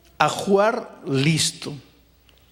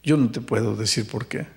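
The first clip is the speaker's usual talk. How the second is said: gentle pastor; 4 semitones lower than usual. Retold or imitated. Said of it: "Le digo".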